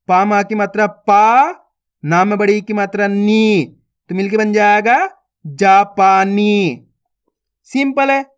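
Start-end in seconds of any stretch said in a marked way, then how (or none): 0.9-6.9 each syllable spaced out, then the word blended slowly; syllable-by-syllable reading. Shown as a demonstration. Teacher to young students: slow sounding-out of each syllable.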